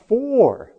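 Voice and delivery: "For" high, loud and held; stress on For. Shown as a demonstration. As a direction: hit "For" hard and stretch it out. Repeats Handel's emphasised word.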